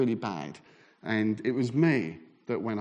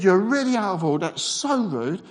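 retold indignant telling-off, pitched up; verbally aggressive; 6 semitones higher than usual. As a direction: lay into him, half-acted. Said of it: "I was really quite aggressive verbally".

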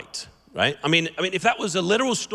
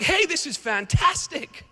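much higher, slowed with delighted surprise; excited; 10 semitones higher, slower than usual. Retold or imitated. Last hour workers thrilled at their full day's pay, high and delighted. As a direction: savour the good news. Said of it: "So they're excited".

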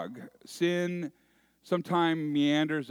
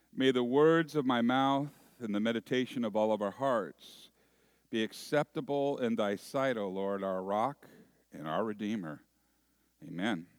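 measured, lowered prayer voice; 3 semitones lower than usual. Acted. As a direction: pray aloud, settling lower towards the Amen. Prays before the sermon.

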